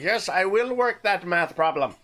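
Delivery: hammed-up bad German accent with a laugh in it; mock German accent, breaking into a chuckle; a deliberately terrible German accent; horrible German accent. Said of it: "That was a horrible German accent".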